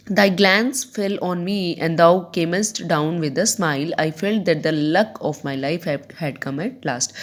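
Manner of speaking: slow, measured verse reading, sinking at the end; deliberate classroom recitation; poem recitation. Acted. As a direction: read it out slowly, letting the last words fall. Reads the poem aloud.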